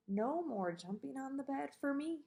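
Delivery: soft sleepy mumble; mumbled. Acted. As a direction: mumble it under your breath.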